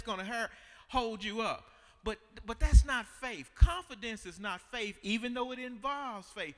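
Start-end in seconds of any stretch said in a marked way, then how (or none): 2.0-5.0 loud, hammering the point; emphatic preaching. Real, not acted. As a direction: drive it home to the church.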